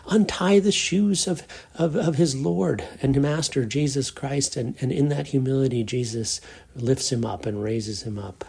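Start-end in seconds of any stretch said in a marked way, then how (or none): 5.8-8.4 whispered softly, with awe. Real, not acted. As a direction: drop to a reverent whisper. Preacher drops to hushed awe.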